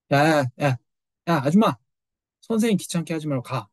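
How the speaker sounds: dismissive brush-off. Retold or imitated. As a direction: wave her away with a curt "hey, hey, lady". Gehazi shoos the woman away.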